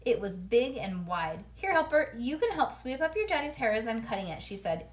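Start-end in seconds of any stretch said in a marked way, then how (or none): 1.5-4.4 hairdresser voice. Acted. Maxine voiced kindly.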